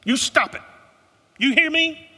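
loud, high scolding with the stress on you; a Southern mother laying down the law; Southern mama scolding. Retold or imitated. Southern woman scolding the white teenage boys, loud and high. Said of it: "she looked at those white teenage boys and said".

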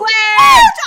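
excited strangled shout of a name; whisper scream. Retold or imitated. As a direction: yell it as if in a silent theater. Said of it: "I, like, whisper scream".

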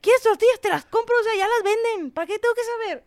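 imitating mom. Imitating her mom shrugging off the aunts' teasing, high and dismissive. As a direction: brush it off like an unbothered mother. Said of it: "Y mi mamá así de".

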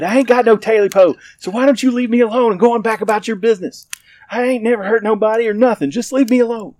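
very high, loud, fast pleading yell; desperate yell. Acted. Terrified man yelling at the creature to leave, high loud pleading. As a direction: scream it out in panic. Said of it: "yelled back as loud as he could".

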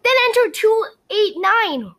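high, loud, joyful call; girl delighted at solving the code; delighted cry. A narrator's reading. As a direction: burst out with glee. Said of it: "Wilbur cried with delight".

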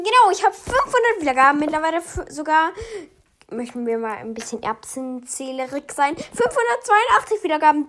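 buzzing with energy; hyped up. Real, not acted. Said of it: "ich bin aufgedreht".

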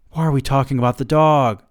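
wife cutting off the dog talk, snapping; snapped. A narrator's reading. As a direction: snap it at him impatiently. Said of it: "she snapped".

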